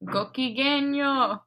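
"Gokigenyo" slow, falling at the end; Japanese intonation. Shown as a demonstration. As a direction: draw out "Gokigenyo" with a falling tune. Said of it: "You have to do the intonation".

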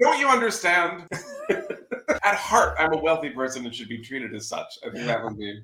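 hammed-up wounded pride; mock entitlement. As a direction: play the outraged wealthy martyr. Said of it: "mock entitled complaint".

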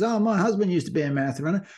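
put-on high, quick, chatty elderly lady; old lady voice. Kindly old lady offers the runner water in a high, fast voice. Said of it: "And she goes".

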